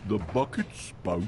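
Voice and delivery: low, slow trial line; rehearsed joke delivery. Shown as a demonstration. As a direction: drop it low and draw it out. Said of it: "really going to nail the delivery".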